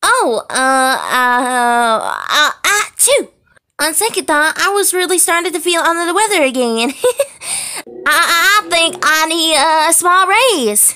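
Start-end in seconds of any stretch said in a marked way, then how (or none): 4.6-6.9 fast, hurried fake excuse; rushed excuse. Faking illness to dodge work.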